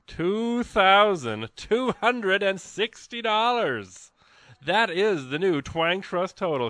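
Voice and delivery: thrilled, slowed-down reveal of the tally; excited announcement. Real, not acted. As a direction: savor the big number like a triumph. Announcing the new pledge total.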